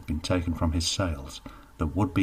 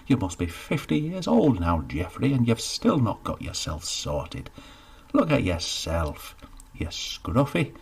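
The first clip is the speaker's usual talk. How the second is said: a hint of a stern shopkeeper, scornful; lecturing baker. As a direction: tell him off, exasperated.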